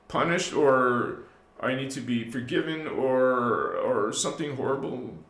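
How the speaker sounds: low, self-abasing confession; subservient. Acted. Believer confessing as a sinner in blind worship, subservient. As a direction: give your power away, sinking into guilt. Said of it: "Subservience, blind worship".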